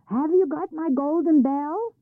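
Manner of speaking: high, loud demanding call; troll calling. A narrator's reading. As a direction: shout the demand to Ole. Troll demands across fields.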